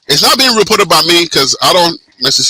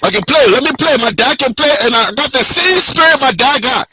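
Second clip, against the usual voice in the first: higher Liberian English voice; Liberian accent; 4 semitones higher than usual. Pretend. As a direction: sell yourself to the coach in a Liberian accent. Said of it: "we gotta put it in our Liberian accent".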